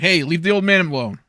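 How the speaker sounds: loud, high call across the room; shout. Acted. Player's character confronts the men threatening an elder, shouting. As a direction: shout it at them to break it up. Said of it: "I will just shout to them".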